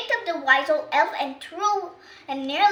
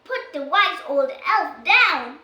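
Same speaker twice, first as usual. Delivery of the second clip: firm shout; 2 semitones higher, 6 dB louder, slower than usual. Acted. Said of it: "shouts Ben".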